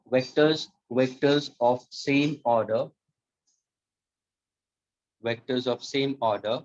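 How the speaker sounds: slow, word-by-word dictation with pauses. Shown as a demonstration. Teacher dictating the statement to students, slow and measured. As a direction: spell it out slowly so students can write. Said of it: "इतना धीरे से बोल रहा हूँ".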